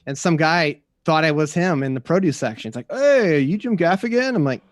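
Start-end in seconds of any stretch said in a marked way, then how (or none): 2.9-4.4 high, loud, drawn-out hail; imitated excited call-out. Stranger spots a comedian in produce, excited call-out. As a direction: holler it slowly like a thrilled stranger. Stranger calling out in grocery store.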